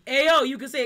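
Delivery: loud retold call across the room. Retelling how Bree shouted at a rude clubgoer. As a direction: shout it to get a stranger's attention.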